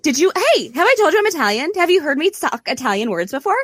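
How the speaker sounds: high, mocking voice of a know-it-all; hammed-up parody of a preening TV chef; mocking show-off. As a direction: mimic a smug host bragging she's Italian. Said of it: "of just like".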